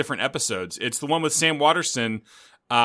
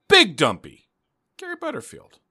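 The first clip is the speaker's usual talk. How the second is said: big dumb guy voice; 6 semitones higher than usual. Pretend. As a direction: play it like a dopey lug. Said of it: "my big dumb guy voice".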